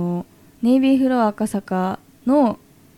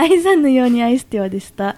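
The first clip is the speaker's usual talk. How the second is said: 声がひっくり返る; 途中で声が裏返る; 声が裏返る; 4 semitones higher, 3 dB louder than usual. Real, not acted. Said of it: "声がひっくり返りました". (声が裏返ってしまう)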